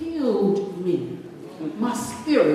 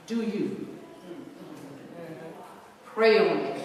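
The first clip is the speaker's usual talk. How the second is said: softer, low imitation of an elderly woman; little but powerful voice; 6 semitones lower, 10 dB quieter than usual. Elderly lady advising a troubled woman, in a little powerful voice. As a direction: lightly voice a small, firm elder, with pauses. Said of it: "she said in her little voice".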